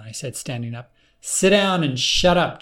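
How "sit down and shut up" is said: sharp, louder command; raised voice that demands obedience; commanding order. Acted. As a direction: order him down, hard. Clone orders narrator to sit.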